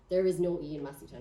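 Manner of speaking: "no E" said firmly and final; stress on no E. Real, not acted. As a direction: land hard on "no E". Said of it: "it has no E".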